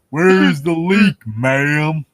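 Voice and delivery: slow, high put-on voice through laughter; laughing mock line. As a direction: blurt the joke line while cracking up. Joking quote while laughing.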